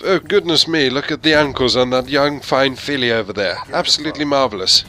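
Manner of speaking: a hint of a posh old Englishman; lightly voiced prim gentleman admiring a lady; stuck-up English gent. Stuffy English gent ogling ankles, lightly voiced. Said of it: "this little stuck-up English attitude of".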